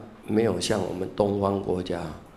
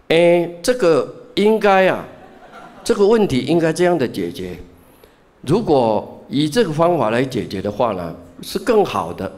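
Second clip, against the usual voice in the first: lecturing student; 6 semitones higher, 4 dB louder than usual. Retold or imitated. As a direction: play the student explaining on and on without noticing the switch. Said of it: "结果就变成讲中文了". (模仿学生滔滔不绝地讲课，带笑)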